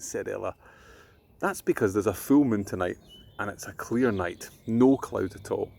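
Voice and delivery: put-on gentle storyteller reading to children; bedtime story reading. A narrator's reading.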